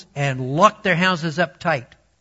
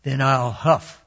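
a loud, building wolf threat; wolf shouts threats at the straw house; wolf shouting; 3 semitones higher, 7 dB louder than usual. A narrator's reading. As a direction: rise to a big bellowed threat. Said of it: "shouted the wolf".

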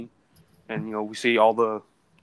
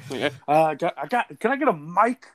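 calling out; 5 semitones higher than usual. Acted. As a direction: shout it out like Joey. Acting out Joey's coffee shop shout.

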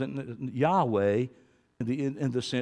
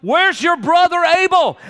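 God's question; 15 dB louder than usual. Retold or imitated. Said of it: "he heard God say to him".

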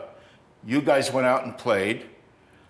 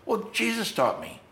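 retold calm, soft but higher-pitched; 9 semitones higher, 4 dB quieter than usual. Musician answering where he learned guitar, mildly calm. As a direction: imitate someone answering very calmly, lightly. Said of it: "said, really calm, like he just looked at me".

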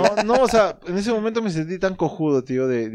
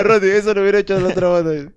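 ordinary talk

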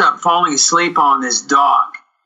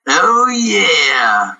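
smug actor; 3 semitones higher than usual. Retold or imitated. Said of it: "just the way he said it".

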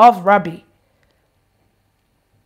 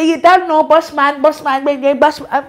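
imitating roadman friend. Friend brushes off the pastor's rebuke, mock roadman chant. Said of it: "He said".

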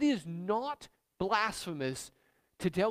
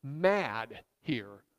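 mock scream at God; much slower than usual. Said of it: "you just need to scream at God".

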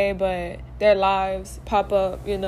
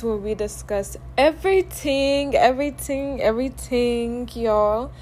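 put-on Jamaican accent; 2 semitones higher than usual. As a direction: toss off the show's motto in a half-joking Jamaican accent. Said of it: "I just came up with this, like, Jamaican accent".

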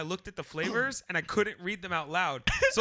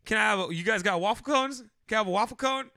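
stammering, louder ice cream order, tripping over words; flustered rushed order; 4 dB louder than usual. Shown as a demonstration. Customer fumbling his order at the counter, loud and flustered. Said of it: "This is how I said it".

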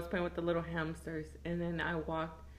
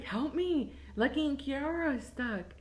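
put-on higher-pitched, mildly panicked kid; touch of retold alarm; mock plea for help; 4 semitones higher, 3 dB quieter than usual. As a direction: imitate a child urgently asking for help. Retold child begging brother for help.

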